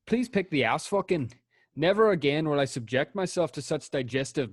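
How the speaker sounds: put-on a light, amateur Scottish accent. Host reading a Yelp review to his co-host in a Scottish accent. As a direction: read the review in a shaky attempt at Scottish. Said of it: "I'm gonna do my best to do this in a Scottish accent".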